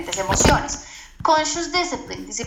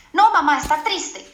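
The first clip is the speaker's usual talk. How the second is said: imitating a child; 4 semitones higher, 5 dB louder than usual. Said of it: "child answers in dialogue".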